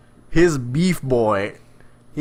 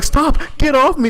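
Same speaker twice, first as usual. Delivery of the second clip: high mock protest, louder; imitating people shoving off a creepy avatar; mock annoyed; 14 semitones higher, 4 dB louder than usual. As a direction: squeal a fake protest. Retold people pushing him away.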